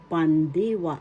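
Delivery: "pandiwa" with the middle "di" stressed; teacher's careful "pandiwa", accent on di; stress on second syllable. Shown as a demonstration. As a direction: lean on DI in "pandiwa". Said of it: "The accent is in the second syllable, di".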